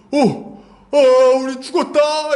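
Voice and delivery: high-pitched gasping panic, acted; startled dread. Servant spots the army surrounding town, startled panic. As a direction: play a servant shocked into despair. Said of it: "이 사람이 놀랐어요".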